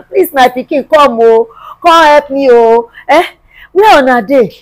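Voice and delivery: loud, drawn-out appeal; desperate loud call; calling out for help. Acted. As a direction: call out loudly for someone to come and help.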